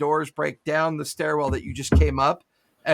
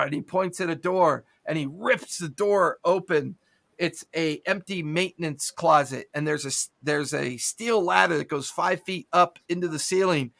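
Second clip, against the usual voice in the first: ordinary delivery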